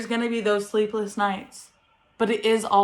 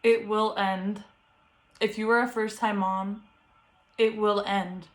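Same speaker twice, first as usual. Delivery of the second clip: calm reassurance. Real, not acted. Reassures first-time moms softly.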